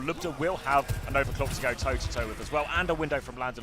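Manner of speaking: esports caster. Real, not acted. Live play-by-play casting.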